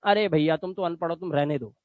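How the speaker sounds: low, quiet dismissive jeer; mocking scoffer. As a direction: mimic people who sneer at you. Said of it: "लोग आपको बोलते हैं".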